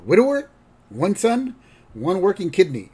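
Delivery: put-on high, clipped old-man rundown; grandpa. Grandpa telling his date about himself, high. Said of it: "And then Grandpa goes".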